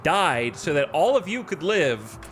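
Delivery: mock Birmingham gang-boss accent, high and pressed; Peaky Blinders accent. Colony leader scolds colonists at the graveside, in a Birmingham accent. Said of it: "I don't know why I just went into that accent".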